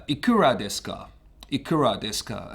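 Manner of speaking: Japanese read with English vowels and R; English-speaker accent. Shown as a demonstration. Teacher showing how native English speakers misread the phrase, English accent. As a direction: say "Ikura desu ka" as English speakers would read it. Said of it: "how the native English speakers would read".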